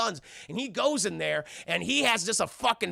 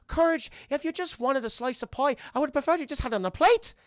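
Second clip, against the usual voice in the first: higher-pitched cartoon scolding; chiding Muriel impression; 7 semitones higher than usual. Muriel to dog over eaten pie, chiding. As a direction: gently scold a pet in a high voice.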